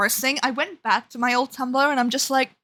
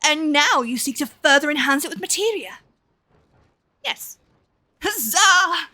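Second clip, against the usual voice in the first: lightly voiced eager scholar; 4 semitones higher than usual. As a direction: play the thrilled inventor. Voices scholar NPC Huberton.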